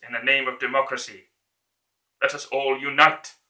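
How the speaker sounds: building to a rousing shout; dictator speech. Acted. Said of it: "that version of his speech".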